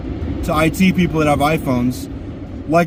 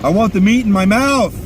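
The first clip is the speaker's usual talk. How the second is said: hungry yelling; 7 semitones higher than usual. Real, not acted. Hungry rant alone in car.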